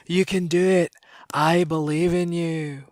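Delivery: rousing Scottish accent pep talk. Shown as a demonstration. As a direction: cheer them on in a Scottish accent. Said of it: "In a Scottish accent".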